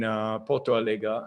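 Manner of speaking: "Porto Alegre" tried slowly with a rolled-r "Porto" and "A-le-gre", no real Brazilian accent; bad Portuguese pronunciation. Real, not acted. Naming the Brazilian city for followers, an admittedly mangled "Porto Alegre". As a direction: reach for the Portuguese "Porto Alegre" and miss, a little slowed. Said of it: "I'm pronouncing it horribly. I don't have my Brazilian accent".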